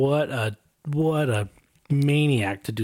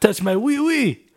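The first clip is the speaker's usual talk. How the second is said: mock silly voice; 10 semitones higher, 5 dB louder, slower than usual. Mock French character bit.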